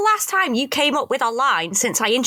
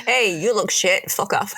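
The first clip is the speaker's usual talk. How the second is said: laughing; 4 semitones lower than usual. Retold or imitated. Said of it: "mocking the dude".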